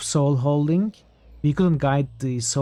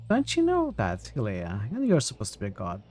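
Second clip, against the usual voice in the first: mocking tease; 2 semitones lower, 4 dB quieter than usual. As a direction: needle her with mock disbelief. Teasing the goddess character.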